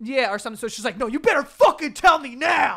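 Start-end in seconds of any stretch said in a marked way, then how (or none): 1.0-2.8 put-on high, very loud, furious angry yell. Retelling a childhood exchange with mom, imitating an angry mom. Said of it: "she got mad".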